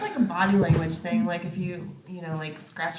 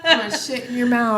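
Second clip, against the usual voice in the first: dominatrix threat; 7 semitones higher, 7 dB louder than usual. Pretend. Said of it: "dominatrix game".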